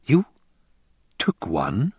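incredulous question. A narrator's reading. Hawat questioning the Fremen's claim, incredulous. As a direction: swoop up in disbelief.

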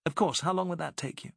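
an urgent Englishwoman hiring a boat; Alice. A narrator's reading.

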